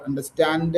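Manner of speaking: "Understand" with an extra uh after the final d; learner's mispronunciation. Shown as a demonstration. Teacher showing a learner's slip, "Understand" mispronounced with a trailing uh. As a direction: add a small vowel to the end of "Understand". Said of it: "focus on your pronunciation".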